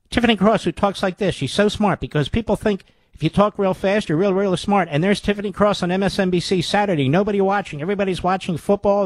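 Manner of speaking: lightly mock her fast chatter; a hint of a fast-talking TV host; mocking Tiffany Cross.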